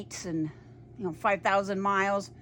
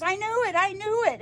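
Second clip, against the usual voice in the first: high, thrilled retold exclamation; excited fan; 11 semitones higher, 4 dB louder than usual. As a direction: act out a fan's high-pitched triumph. Acted quote of thrilled fan.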